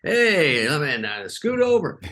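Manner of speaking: high, hammed-up squeeze-past voice; imitating Farley. Farley climbing into the booth to join the fans, hammed-up high voice. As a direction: lightly play the big guy barging into the booth. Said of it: "he climbs over the little bear".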